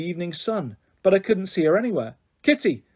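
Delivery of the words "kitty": calling across the park. A narrator's reading. Lucy calling for Kitty across the empty park. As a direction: call her name out. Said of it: "I called".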